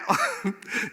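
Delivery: squealing laugh; high burst of laughter. Real, not acted. A preacher squealing with laughter at his own joke. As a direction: break into a high giggle.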